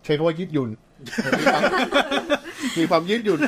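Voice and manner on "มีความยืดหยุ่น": high burst of laughter, then words laughed out; amused by her own softened word; real laughter through the sentence; laughing. Real, not acted.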